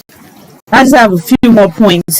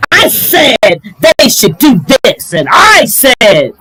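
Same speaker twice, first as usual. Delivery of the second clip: imitating a loud talker; 2 semitones higher, 4 dB louder than usual. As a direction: ham up someone who always talks too loud. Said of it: "always talking like this".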